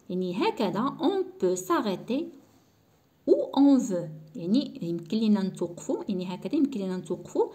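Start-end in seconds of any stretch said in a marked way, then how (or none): 1.0-4.1 slow dictation. Shown as a demonstration. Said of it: "teacher reads French example slowly".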